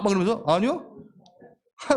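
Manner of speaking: ordinary talk, nothing marked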